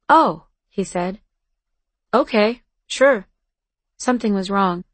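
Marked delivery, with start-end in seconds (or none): 0.1-0.5 surprised. Acted. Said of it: "he sounded surprised". 2.1-3.3 polite. Acted. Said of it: "and then polite".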